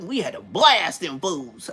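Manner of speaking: slow OG telling, BLAST stretched out; OG emphasis. Retold or imitated. Big homie telling war stories, old-school emphasis on "blast". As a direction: lean long and hard on "blast". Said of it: "the way they put the emphasis on the word".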